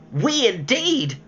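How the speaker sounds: high, slow outraged mouse squeak; indignant cry. A narrator's reading. The trembling mouse crying out at Alice, high. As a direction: spit it out in disgust. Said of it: "cried the mouse".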